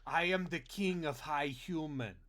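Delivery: lightly voiced game troll boast; a hint of a Warcraft troll. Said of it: "talking like a troll from World of Warcraft".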